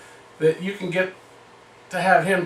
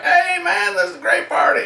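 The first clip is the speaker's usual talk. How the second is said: fake-innocent cheer; 11 semitones higher than usual. Faking innocence to the owner.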